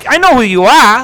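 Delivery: high, loud warning call; loud confrontation. Retold or imitated. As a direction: call it after the thieves. Following thieves, confronting.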